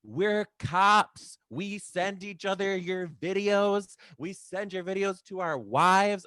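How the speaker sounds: loud, high mock cop voice; hammed-up bellowing cops; a group of cops shouting proudly; macho cops. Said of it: "They're like".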